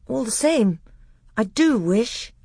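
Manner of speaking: put-on high, wistful little boy; small child timidly holding his ground; Caspian.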